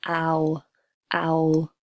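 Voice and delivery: ow opening then closing; ow diphthong. Shown as a demonstration. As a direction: drop the jaw then close on ow. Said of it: "it starts down here".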